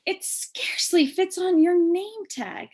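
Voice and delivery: high mocking child voice; teasing classmate. Rita pointing at the name tag, high and mocking. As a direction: poke fun at her name. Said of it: "said Rita".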